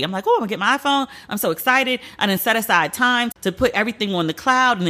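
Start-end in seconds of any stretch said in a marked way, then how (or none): 0.3-1.1 giddy. Retold or imitated. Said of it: "I'm really giddy".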